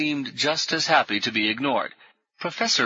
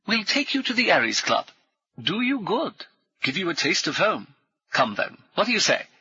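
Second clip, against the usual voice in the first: brisk, higher, jovial military gent; hearty ex-officer; 8 semitones higher than usual. Acted. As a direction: bluff old soldier greeting new friends. Brummond invites them.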